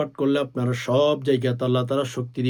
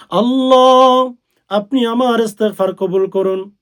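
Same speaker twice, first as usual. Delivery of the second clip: fervent prayer; 8 semitones higher, 9 dB louder than usual. Acted. Voiced prayer to Allah.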